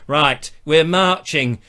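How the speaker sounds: emphatic mock northern accent; rally the troops in a hammed-up northern voice; indignant Northerners. Imagined Northerners shaking fists, indignant northern accent. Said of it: "all Northerners shaking their fists going".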